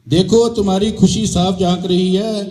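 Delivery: measured verse delivery with pauses between phrases; comic poem recitation. Acted. Poet tells friends how he spent Holi, reciting comic verse. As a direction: recite it to a crowd, line by line.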